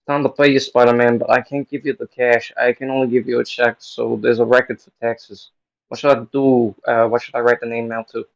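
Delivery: lightly voiced brisk paymaster; show promoter. Promoter paying Spider-Man by check, loud and businesslike.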